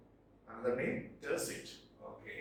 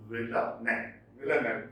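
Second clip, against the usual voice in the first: Villanelle in a lower voice, second syllable stressed; 3 semitones lower, faster than usual. Shown as a demonstration. Teacher drilling the word, Villanelle stressed on second syllable. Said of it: "Stress is on the second syllable".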